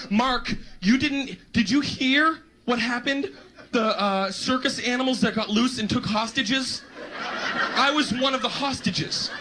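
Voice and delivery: mock-distraught excuse. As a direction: sell an absurd excuse in hammed-up distress. Acting out an outlandish excuse.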